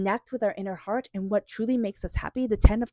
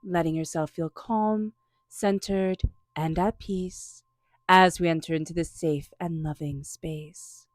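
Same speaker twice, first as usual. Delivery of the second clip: guided meditation; 2 semitones lower than usual. Acted. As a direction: lead the listener gently into calm.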